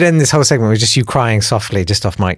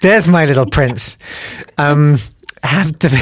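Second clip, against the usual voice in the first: cheering up a friend; 3 semitones higher than usual. Acted. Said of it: "cheering up a friend".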